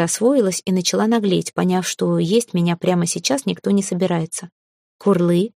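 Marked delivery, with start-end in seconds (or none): 5.0-5.5 happy coo. Acted. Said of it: "обрадовался дракон".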